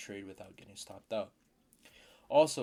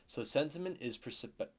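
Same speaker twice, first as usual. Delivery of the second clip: stumbling over the word perspective; stuttering. Real, not acted. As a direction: trip over the word, then correct it. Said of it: "Fuck, I'm stuttering".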